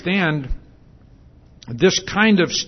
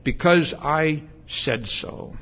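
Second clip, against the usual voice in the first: slow final word; slower than usual. Retold or imitated. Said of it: "for God to say".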